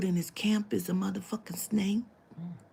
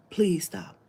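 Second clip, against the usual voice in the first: breathy whispered please stop; whispered begging. Retold or imitated. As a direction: beg under your breath.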